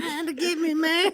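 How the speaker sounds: mock panic. Joins mock panic call.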